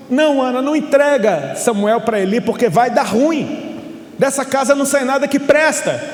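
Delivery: acted-out urgent objection; urgent protest. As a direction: plead against it, as an alarmed onlooker would. Acted listeners objecting to Ana.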